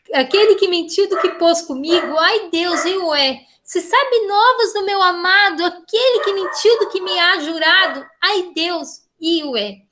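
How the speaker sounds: high, pleading line of a lover's lament; a teacher voicing an abandoned girl's plea; pleading recital. Shown as a demonstration. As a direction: beg the flowers for news. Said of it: "essa entonação de súplica aqui".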